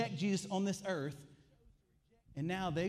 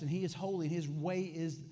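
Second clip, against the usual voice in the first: usual speaking voice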